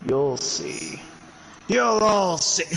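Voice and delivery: slow, menacing mad-villain threat; wild unhinged ranting. Acted. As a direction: drag out the doom like a mad scientist. Mad scientist threat in Minecraft.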